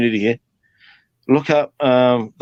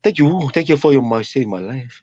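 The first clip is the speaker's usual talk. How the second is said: put-on Samoan accent. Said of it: "they got the accent".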